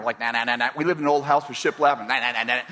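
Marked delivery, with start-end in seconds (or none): 0.2-0.7 hammering sounds. Retold or imitated. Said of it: "I hammered everything I could hammer". 2.1-2.6 hammering sounds. Retold or imitated. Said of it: "I hammered every nail".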